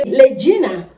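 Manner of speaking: Kenyan boss's l for r. Retold or imitated. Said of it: "he ended up telling me".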